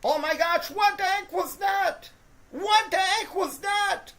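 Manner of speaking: stunned outrage; incredulous outburst. Real, not acted. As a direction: demand what just happened. Disbelief at a bad play.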